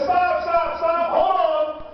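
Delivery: high-pitched, insistent stop; urgent halting call. Retold or imitated. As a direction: cut in to halt an eager crowd. Retold wise man halting the jumpers.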